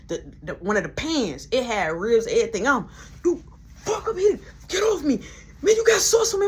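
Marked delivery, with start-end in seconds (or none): 3.2-6.5 higher, louder mock-angry voice; heated shout during a kitchen brawl; angry fired coworker. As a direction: bark it like a shoved man. Man shoving during the fight.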